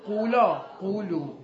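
قولا، قولو drawn out slowly and loudly, each form stressed; slow emphatic demo. Shown as a demonstration. Teacher showing the class the imperative forms, slow and loud. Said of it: "teacher spells out imperative forms".

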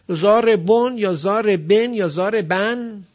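slow "ضاربون یا ضاربن یا ضاربن" with -on, -en, -an endings; "ضاربون" drawn out three ways, changing the last vowel; contrasting case endings. Shown as a demonstration. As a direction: offer three endings of "ضاربون" slowly: -bon, -ben, -ban.

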